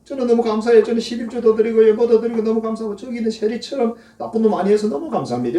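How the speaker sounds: high, loud, self-satisfied prayer; preacher mimicking a proud Pharisee thanking God he is better; smug Pharisee. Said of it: "이 사람이 이렇게 기도합니다".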